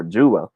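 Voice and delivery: "jewel" split into joo and wel; two-syllable jewel. Shown as a demonstration. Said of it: "We say jewel sometimes".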